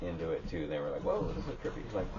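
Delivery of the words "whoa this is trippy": whispered awe. Retold or imitated. Friends reacting at the show.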